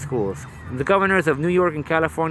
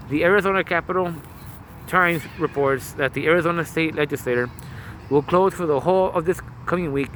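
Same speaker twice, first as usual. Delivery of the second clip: muffled through mask. Real, not acted. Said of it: "If I sound muffled, it's 'cause I'm wearing a".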